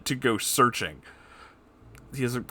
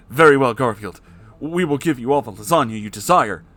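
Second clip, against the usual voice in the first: promising; 2 semitones higher, 7 dB louder than usual. A narrator's reading. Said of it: "with promises".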